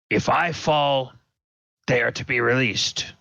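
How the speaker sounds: a calm, confident challenge, barely changed from the narrator; Dragon Man speaking. Acted. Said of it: "and says".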